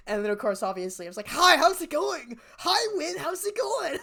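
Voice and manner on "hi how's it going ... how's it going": high, slow awkward hello; squeaky nervous hi to an idol; awkward greeting. Retold or imitated.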